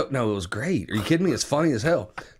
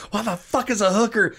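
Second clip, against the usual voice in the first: imitating angry wife; 8 semitones higher than usual. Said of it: "She goes".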